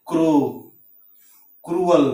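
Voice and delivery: क्रो and क्रूअल each begun with KR; C before R as K. Shown as a demonstration. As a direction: say क्रो, then क्रूअल, with a hard K. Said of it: "यानी क हो गया".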